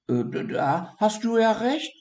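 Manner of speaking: high stammering concession; high dormouse interrupting; hesitant dormouse. A narrator's reading. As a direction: cut in with a stutter. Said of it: "unterbrach Siggi".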